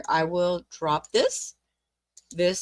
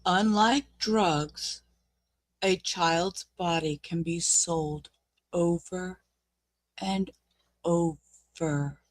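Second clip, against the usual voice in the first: slow grave repeat; 5 dB quieter, slower than usual. Real, not acted. Slowly repeats the line for emphasis.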